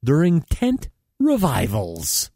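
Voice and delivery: comedy newscast with punchy phrasing; mock news read. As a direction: read it like a satirical anchor. Reads mock news items.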